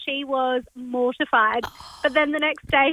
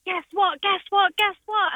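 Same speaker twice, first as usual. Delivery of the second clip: put-on excited kid; 5 semitones higher than usual. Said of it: "he was like".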